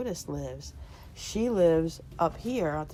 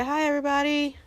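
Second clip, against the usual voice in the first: squeaky high little-critter voice, much higher; rabbit voice; 9 semitones higher, faster than usual. Acted. Owner making her rabbit greet the viewers in a squeaky voice. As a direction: voice the rabbit greeting everyone brightly.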